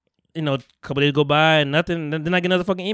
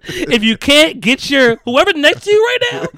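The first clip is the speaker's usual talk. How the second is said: loud, much higher, drawn-out demand; hammed-up exasperated demand; 10 semitones higher, 7 dB louder, slower than usual. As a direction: stretch it out, begging for a supervisor. Exasperated call to customer service.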